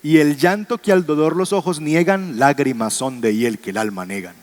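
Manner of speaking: poetic recitation. Shown as a demonstration. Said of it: "Aquí hay otro ejemplo".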